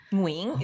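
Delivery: "Nguyen" ending in an ng-like nasal; Vietnamese pronunciation. Shown as a demonstration. Host checks the Vietnamese form, "Nguyen" said as "nwing". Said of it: "But in Viet".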